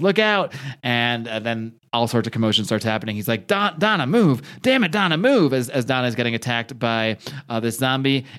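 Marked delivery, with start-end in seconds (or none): 0.0-0.5 higher shouted warning; sudden lookout cry; retold warning yell. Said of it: "he yells". 3.5-5.5 higher, pushed shouting at Donna; frantic mock shouting; retold urgent yell. Urgent yelling during zombie attack.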